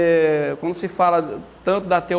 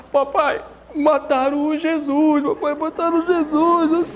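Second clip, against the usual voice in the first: put-on higher, slower child's wail of a voice; crying little girl; 6 semitones higher, slower than usual. Daughter tells her father Jesus was killed, tearfully. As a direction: play the tearful five-year-old daughter. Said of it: "ela chegou em casa chorando".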